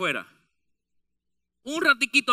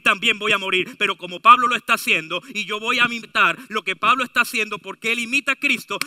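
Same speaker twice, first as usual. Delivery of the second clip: resolute believers; faster than usual. Acted. Believers' resolve voiced, building to hallelujah.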